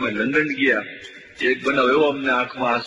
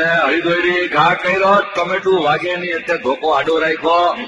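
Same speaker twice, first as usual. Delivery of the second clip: mock live commentary. Comedian narrating a village match to the crowd, mock commentary.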